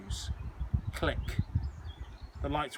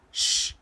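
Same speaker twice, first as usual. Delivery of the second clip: hushing shh; 4 dB louder than usual. Acted. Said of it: "came another voice".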